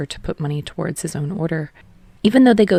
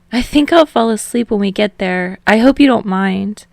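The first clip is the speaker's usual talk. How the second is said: sheepish Hinata; 4 semitones higher, 6 dB louder than usual. A narrator's reading. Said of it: "he said sheepishly".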